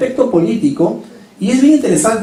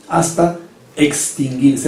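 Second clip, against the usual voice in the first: slow fade; 5 semitones lower, slower than usual. Acted. Ember dying out.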